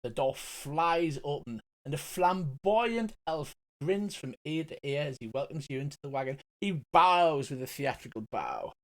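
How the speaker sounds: ordinary talk, nothing marked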